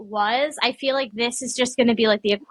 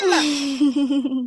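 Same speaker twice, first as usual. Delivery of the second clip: put-on kid calling mom; 3 semitones higher than usual. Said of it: "hear your opponent go".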